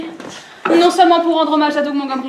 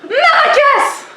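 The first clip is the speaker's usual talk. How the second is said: high, slow, drawn-out shout; drawn-out cry; 9 semitones higher, 4 dB louder, much slower than usual. Acted. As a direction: stretch the word out loud and high. Last word before the mission.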